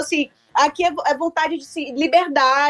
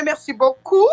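a quick French "merci beaucoup" with French vowels; tossing off French in a light French accent; French words; slower than usual. Pretend. Guest showing off her French to the hosts, a light French accent. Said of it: "Eu já sei falar o francês".

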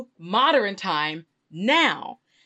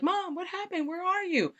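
higher-pitched daughter; 11 semitones higher, 5 dB quieter than usual. Acted. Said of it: "She's like".

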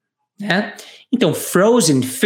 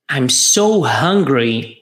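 slower still, lower; slow repeat-after-me; 5 semitones lower, much slower than usual. Shown as a demonstration. Teacher repeating the model line for students, slowly. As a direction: leave room for students to echo. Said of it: "Vamos repetir?".

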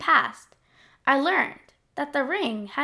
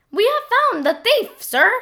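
creature voice; 11 semitones higher, 5 dB louder than usual. Acted. Monster soldier reports.

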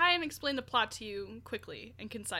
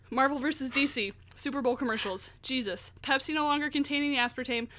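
all in one breath. Real, not acted. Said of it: "I'm out of breath".

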